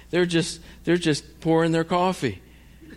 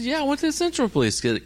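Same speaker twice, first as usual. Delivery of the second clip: high, rapid-fire reply; exasperated insistence; 13 semitones higher, faster than usual. Retold or imitated. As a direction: fire the answer back in a much higher pitch. Exasperated answer to police.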